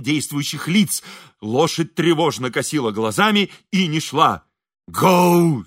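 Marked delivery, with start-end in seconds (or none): 4.9-5.6 limp, listless. A narrator's reading. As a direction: urge the horse on without conviction. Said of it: "сказал Шаринов вяло". (вялый оклик лошади)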